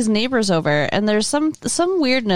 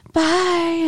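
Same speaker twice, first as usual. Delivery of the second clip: higher-pitched, sweetly friendly bye; mock nice goodbye; 8 semitones higher than usual. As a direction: toss off a suddenly nice farewell. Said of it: "he's all, like, nice and, like".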